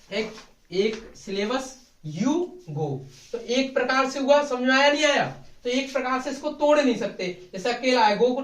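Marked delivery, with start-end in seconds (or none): 0.1-3.0 slow, spaced one-syllable example "you go"; syllable demo. Shown as a demonstration. Teacher going over one-syllable example again, slow. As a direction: say "you go" slowly as single syllables. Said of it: "दोबारा से देखो".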